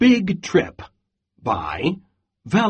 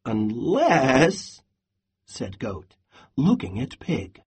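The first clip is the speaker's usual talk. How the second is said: storybook read-aloud with voiced animals; lively picture-book narration; reading to children; 2 semitones higher than usual. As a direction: read it like a bedtime story for a class. Teacher reads picture book aloud.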